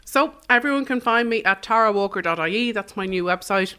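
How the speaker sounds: talking through a mouthful of pie; words round a bite of mince pie; mouth full. Real, not acted. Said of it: "you've asked me this with a mouthful of mince pie".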